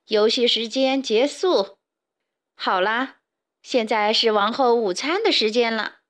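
measured royal announcement; announcing. A narrator's reading. Queen ends playtime for lunch, announcing. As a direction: proclaim it to the whole company. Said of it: "她摇着铃铛宣布".

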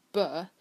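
"But" with the final t swallowed; unreleased t. Shown as a demonstration. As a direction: cut "But" off before the t sounds. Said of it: "我们会说".

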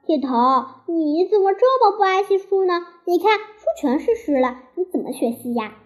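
put-on girl scolding her deskmate for spilling water, mildly angry. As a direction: tell him off over the wet book. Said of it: "李黎生气地说".

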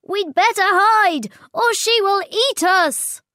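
high, loud scared plea; Tricky urging the others to hide, high and loud; frightened urging. Acted. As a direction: hurry everyone into hiding. Tricky urges hiding from Tyro.

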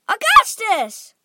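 mother's high cry for her son. A narrator's reading. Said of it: "cried Missus Gloop".

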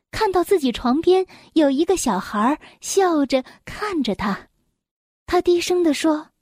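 measured bedtime-story reading; children's story narration. Acted. Mother reads an elf tale to a little one, storytelling. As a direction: read it gently to a small listener.

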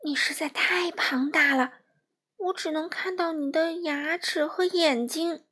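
amazed. Acted. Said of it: "闪闪惊奇地说".

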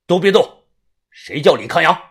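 loud, commanding police order; stern shout. Acted. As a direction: bark the order. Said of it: "立即呵斥地问". (严厉呵斥)

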